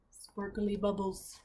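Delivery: soft, slow, hushed wonder. Acted. Reader marvelling quietly at the bubbles, soft and slow. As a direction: breathe the words out in awe. Reader savours the magic picture.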